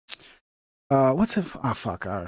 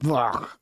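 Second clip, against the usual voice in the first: low groan of disgust; disgusted ugh; 5 semitones lower, 5 dB quieter than usual. Real, not acted. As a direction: let out a revolted "ugh". Disgust at rubbery steak.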